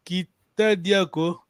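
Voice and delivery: "Kita diako" said slowly and carefully; slow model phrase. Shown as a demonstration. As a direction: say "Kita diako" slowly, with a short break after "Kita". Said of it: "here we're saying".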